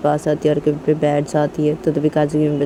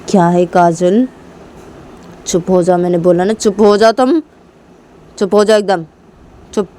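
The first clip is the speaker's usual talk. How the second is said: a touch of firm scolding; stern mother; 3 semitones higher, 5 dB louder than usual. Acted. Mother hushes angry daughter.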